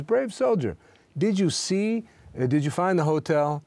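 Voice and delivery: a hint of a smug old seller asking; kiosk owner. Kiosk owner greets returning soldier.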